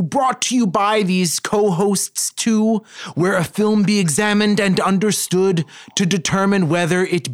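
slow rhyming showman intro; horror host. Acted. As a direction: recite it like a spooky host. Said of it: "go right to your intro".

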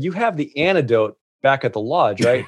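half-laughing, uneasy check about the antidote; nervous laughing question. Retold or imitated. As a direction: ask it with a nervous little laugh. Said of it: "laughed nervously".

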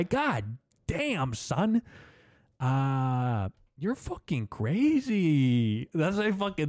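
mock Cholo accent pushed up high. Comedian imitating a Cholo calling someone crazy, hammed-up Cholo accent. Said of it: "they say crazy a lot".

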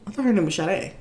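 the singer's name starting with SH; two syllables in the name, SH first then DAY; SH pronunciation. Shown as a demonstration. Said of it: "'Cause you add an H".

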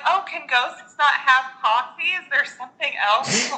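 light high mock-confused mom; puzzled hostess mom. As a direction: ask like a baffled hostess. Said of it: "she was like".

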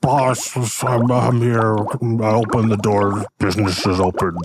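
a lightly put-on eager servant; eager little helper reporting in; slime servant voice. Goggles reports to his boss, lightly voiced.

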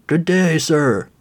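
put-on thin, creaky elderly voice; creaky old man voice. A narrator's reading. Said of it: "he said in a creaky voice".

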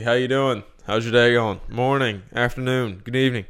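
mock-friendly string of greetings; lightly hammed-up greeter. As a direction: rattle off hellos to imaginary passers-by. Mocking greeting every passer-by in mall.

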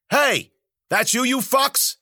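high, loud, slow scream from afar. Acted. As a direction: hurl it across the road. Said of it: "someone screamed".

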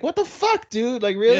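high shocked indignant squeak; indignant outrage. Retold or imitated. Nagisa, singled out by Saki, indignantly high. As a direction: squeal it in offended disbelief. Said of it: "And Nagisa's like".

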